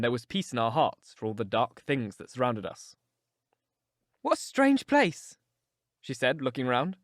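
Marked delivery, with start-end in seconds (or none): 4.2-5.4 high, slow feminine character voice; wondering young woman. A narrator's reading. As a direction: voice her wonder, high and drawn out. Young woman character looking round.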